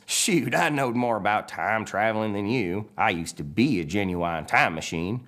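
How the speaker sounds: lightly voiced tow truck bragging; a hint of a slow country boast; Mater. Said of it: "And Mater says".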